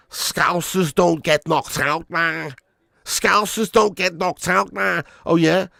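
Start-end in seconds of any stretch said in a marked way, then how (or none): 0.1-2.6 slow, put-on Scouse accent; mock a Scouse fighter, drawing it out; Paddy Pimlet. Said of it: "Paddy Pimlet's voice". 3.1-5.0 slow, put-on Scouse accent; mock a Scouse fighter's drawl; Paddy Pimlet. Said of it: "Paddy Pimlet's voice".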